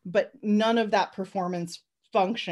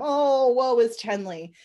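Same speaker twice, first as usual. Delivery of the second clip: slow, louder melodramatic woe; mock lament; 3 semitones higher, 5 dB louder, slower than usual. Podcaster mocking the heroine's woes, slow hammed-up lament. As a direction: ham up the pity. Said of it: "mock lament".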